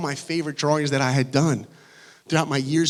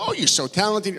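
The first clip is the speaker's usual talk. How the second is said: doting mom; 6 semitones higher than usual. Retold or imitated. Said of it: "my mom was always like".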